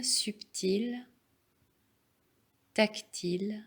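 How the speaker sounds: calm, measured relaxation voice; guided meditation. Real, not acted. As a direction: guide them unhurriedly into stillness. Leads a yoga nidra.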